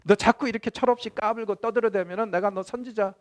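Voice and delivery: acted angry God threatening his prophet; God snapping back. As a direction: scold like an exasperated father silencing a child. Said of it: "대받아치십니다".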